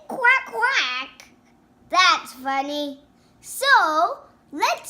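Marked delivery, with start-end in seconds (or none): 0.1-1.3 high, drawn-out mock quack; taklit ördek sesi. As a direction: quack like a little kid playing duck. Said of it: "And he said".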